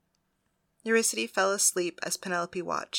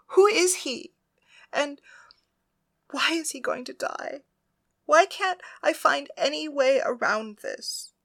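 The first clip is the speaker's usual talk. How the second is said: high, crying questions, louder; tearful pleading; 7 semitones higher, 4 dB louder than usual. A narrator's reading. Penelope begs her goddess for answers, high and tearful. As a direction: pour out the grief in a rush of questions. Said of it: "as she began to cry".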